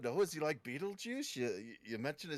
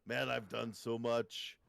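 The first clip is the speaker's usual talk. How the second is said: put-on Austrian accent; 4 semitones lower than usual. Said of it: "Your Austrian accent with a little Scottish".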